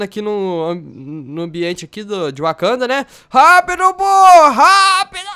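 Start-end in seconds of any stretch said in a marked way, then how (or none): 3.3-5.3 high, loud hurry-up shout; urgent shout. Pretend. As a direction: yell at him to hurry. (grito urgente, alto e agudo)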